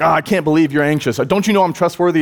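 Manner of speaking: mock exasperation. Imagined annoyed Jesus scolding anxious people, mock exasperated. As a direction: huff it like a put-out scold. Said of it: "he gets mad at you about your anxiety".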